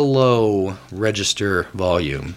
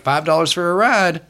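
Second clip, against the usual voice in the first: higher, chirpy sales pitch; pushy vendor; 6 semitones higher than usual. Acted. Petting zoo staff pitching rides, high and chirpy. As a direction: sell the ride brightly. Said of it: "They're like".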